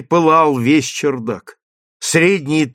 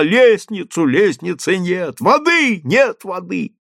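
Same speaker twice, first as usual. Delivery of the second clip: shouting crowd; 6 semitones higher than usual. Acted. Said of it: "раздавались голоса".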